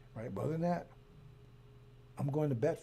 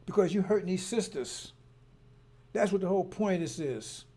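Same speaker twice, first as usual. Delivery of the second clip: higher, louder, fired-up protest; rally them to defend the sisters; angry speech standing up for struggling mothers; impassioned rant; 4 semitones higher, 5 dB louder than usual. Real, not acted.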